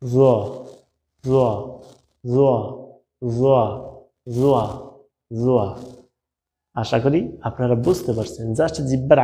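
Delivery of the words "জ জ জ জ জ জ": জ repeated short and crisp; letter drill. Shown as a demonstration. Teacher drilling জ with students, short and crisp. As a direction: tap out জ again and again. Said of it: "এরপর আসি".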